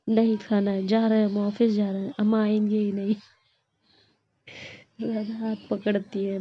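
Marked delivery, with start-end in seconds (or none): 0.1-3.1 loud, petulant refusal; furious sulk. Acted. Krishna refuses the sweet after being tricked, loud and huffy. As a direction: stamp your foot and storm out. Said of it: "किलस जाते हैं एकदम".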